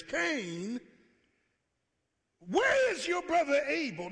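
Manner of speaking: God confronting Cain with a shout; God's shout. Acted. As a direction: demand it like an angry God. God demanding Abel's whereabouts.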